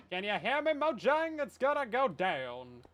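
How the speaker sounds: loud, defiant shout at Mojang; defiant call-out. Pretend. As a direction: call them out, daring them. Calling out to the game developers.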